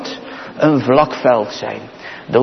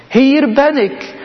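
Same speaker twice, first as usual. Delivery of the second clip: higher, slow, ringing call of the Lord; 9 semitones higher than usual. Acted. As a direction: call out as God answering from on high. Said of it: "En hij zegt het".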